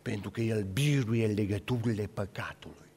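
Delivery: hushed, voiceless confiding; whisper. Acted. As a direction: whisper the secret to the congregation. Quiet conclusion of the sermon.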